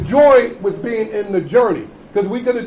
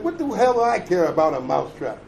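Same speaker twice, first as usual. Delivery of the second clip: gruff pig; 5 semitones lower than usual. Acted. Pig answers the mouse.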